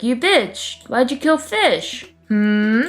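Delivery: high-pitched put-on accusation; accuse, then prod with questioning hums; mock angry. The speaker confronting Cryptic over Fish, mock angry.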